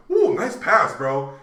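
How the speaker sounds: loud, high whoop of praise; excited cheer. Retold or imitated. Teammates praising a perfect pass, excited cheer. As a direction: cheer them on with a high opening. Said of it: "I was so excited".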